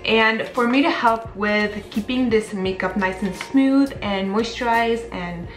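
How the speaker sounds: talking with whitening strips on; words round teeth strips. Real, not acted. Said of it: "I have whitening strips on".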